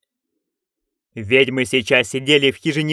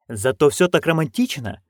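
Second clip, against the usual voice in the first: excited; 2 semitones higher than usual. Acted. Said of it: "зашлась от восторга".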